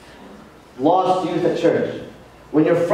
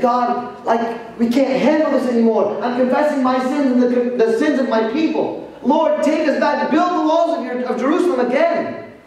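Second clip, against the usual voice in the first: earnest plea; 5 semitones higher than usual. Acted. Nehemiah prays on his knees.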